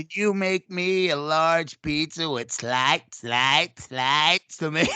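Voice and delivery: slow, getting stuck repeating slight; lightly voiced stuttering dishwasher; mock stutter. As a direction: drag out each repeat like a drunk. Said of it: "he had this weird stutter".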